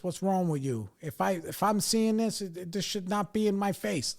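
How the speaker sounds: hammed-up imitation of an exasperated dad; scolding dad. Dad scolds son over drugs.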